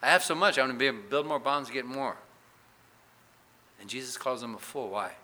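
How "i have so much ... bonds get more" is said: boastful rich man. Retold or imitated. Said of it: "he figured".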